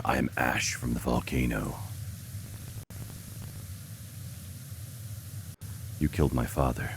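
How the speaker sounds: low, dramatic anime villain voice; overacted anime dub. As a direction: ham it up like a dubbed anime hero. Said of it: "That sounds like an anime character".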